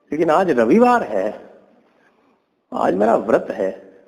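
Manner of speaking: high-pitched mock-pious jackal putting him off; wheedling jackal, pitched well up; sly excuse. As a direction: stall him in a high, placating voice. Jackal makes pious excuse to deer.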